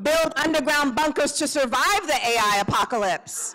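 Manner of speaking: rally the crowd, half laughing; laughing call-out. Shown as a demonstration. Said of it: "calling prompts to the crowd".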